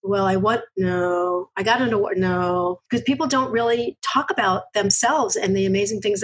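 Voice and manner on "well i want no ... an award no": imitating a hesitant, stumbling interviewee; mock flustered hesitation; stumped candidate. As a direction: fumble for an answer, stopping and restarting. Acting out stumped job candidates.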